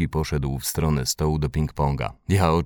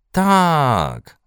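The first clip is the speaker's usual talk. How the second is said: high, loud, drawn-out yes; long, jubilant shout; calling out; 11 semitones higher, 5 dB louder than usual. A narrator's reading. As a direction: cheer in eager agreement. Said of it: "zawołały bliźniaczki".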